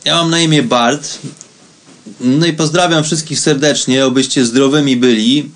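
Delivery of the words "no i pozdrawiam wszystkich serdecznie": ordinary delivery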